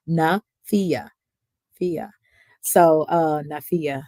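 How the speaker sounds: tipsy giggling over a name. Real, not acted. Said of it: "I'm a little tipsy".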